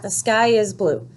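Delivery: even, unexcited statement with a falling end; calm statement. Shown as a demonstration. Teacher shows a sentence that ends with a period, calm and matter-of-fact. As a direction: say it flat and settled, not excited, not yelling. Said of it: "am I excited when I say that? No".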